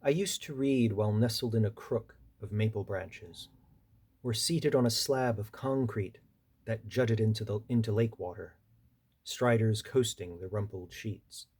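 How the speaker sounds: measured poetry recital with pauses between phrases; poem reading. Acted. Poet reading a seaside poem to an audience, measured recital. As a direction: read it line by line, letting each image land. Reads own poem aloud.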